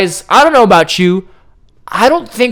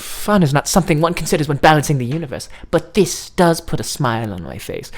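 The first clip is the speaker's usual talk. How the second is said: droning; 7 semitones lower, 5 dB quieter than usual. Acted. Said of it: "You droned".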